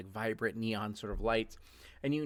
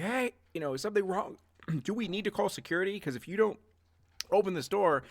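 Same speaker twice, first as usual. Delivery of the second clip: raised, fast worried guard voice; associates calling through the door; 4 semitones higher than usual. Acted. Guards outside the room warning the locked-in party, worried. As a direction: pound on the door and call in, worried. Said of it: "being like".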